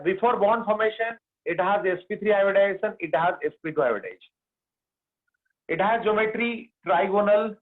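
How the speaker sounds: very slow, word by word dictation. Shown as a demonstration. Teacher dictating hybridization notes, very slowly. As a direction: give it at writing speed.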